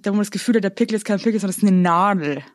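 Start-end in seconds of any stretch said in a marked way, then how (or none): 1.4-2.4 slightly slurred words; slurring. Real, not acted. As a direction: speak with a heavy, slurred tongue. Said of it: "Ich lall heute auch. Hörst du das?".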